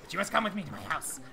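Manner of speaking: hushed, secretive prophet voice; real quiet. Acted. Prophet inviting the pixie to his house, hushed. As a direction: confide it very softly. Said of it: "you got real quiet".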